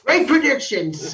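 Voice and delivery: high, slow, mocking "Great predictions"; sarcastic praise. Mocking a friend's bad call, slow and high. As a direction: stretch it out like a dry joke.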